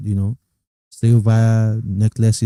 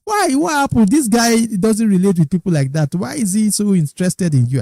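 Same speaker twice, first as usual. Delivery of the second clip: puzzled amazement; 7 semitones higher than usual. Retold or imitated. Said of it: "looking at me and looking at us and say".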